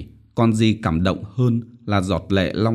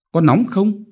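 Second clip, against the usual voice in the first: much higher worried question; concerned mother; 11 semitones higher, 4 dB louder than usual. A narrator's reading. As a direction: check the fever anxiously. Mother feels her forehead. (mẹ lo âu hỏi)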